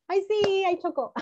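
playful relief; pretend delight. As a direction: celebrate the letters colliding. Letters finally collide.

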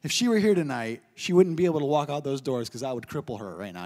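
low, fake-menacing aside; hammed-up congregation threat; mock outraged congregation. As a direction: play the shocked crowd threatening. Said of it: "all of you are like".

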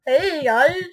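lightly voiced baby greeting; a hint of baby talk; imitated little baby. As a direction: mimic a little baby saying hi. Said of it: "sounded like a little baby going".

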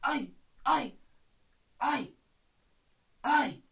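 high hey with a light threat; lightly voiced East End tough; Phil Mitchell impression. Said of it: "You go".

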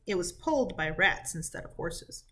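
reading a folk tale to a class, steady and clear; lightly voiced storybook reading; story narration. A narrator's reading. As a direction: tell it like a storybook to sixth graders. Teacher reads folk tale aloud.

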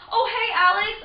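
high, loud bright hello; cheery greeting. Retold or imitated. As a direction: call out happily to a friend. Retelling greeting with new name.

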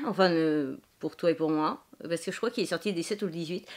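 ordinary talk, nothing marked

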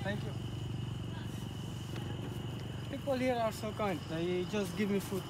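quiet. Real, not acted. Speaking quietly near others.

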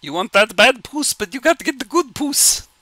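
squeaky falsetto character; silly high voice. Pretend. Streamer clowning for chat while waiting, silly falsetto. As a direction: put on a goofy, high little voice.

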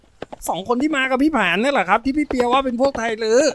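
put-on high, eager young boy voice; high-pitched boy's question; little boy calling out a question. A narrator's reading. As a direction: pipe up as a curious kid brother. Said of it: "เขาร้องถามพี่สาวเขาว่า".

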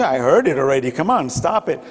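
mildly annoyed, brushing it off; a touch of impatience, waving it away; bored refusal. Retold or imitated. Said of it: "should have a different attitude".

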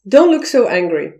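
said straight and blunt; a flat order with no softening; a plain, direct rebuke. Shown as a demonstration. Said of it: "How can you say that in a high context manner".

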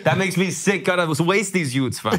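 joking put-on Toronto accent. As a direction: lay on the Toronto slang accent. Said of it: "why are you talking like that".

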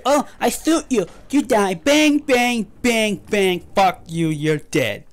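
high, cocky taunt of the enemy hunter; mocking the boss. Gamer mocking the Bloodborne boss, in a high cocky taunt. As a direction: sneer it like the smug boss gloating. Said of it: "It's like".

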